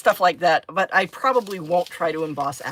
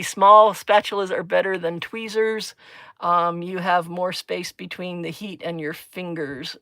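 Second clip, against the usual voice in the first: reading a comment aloud; slower than usual. Real, not acted. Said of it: "Thank you, Elena".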